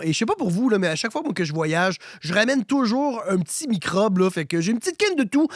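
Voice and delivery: hoarse from a cold; real raspy sick voice; smoker's voice. Real, not acted. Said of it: "vous me pardonnerez pour ma voix de fumeur".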